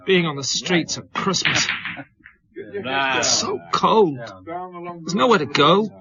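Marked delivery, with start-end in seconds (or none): 2.6-5.9 very slow, drawn-out misery; bleak lament. Acted. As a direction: let the cold sink into each word. Drunk describing streets at Christmas.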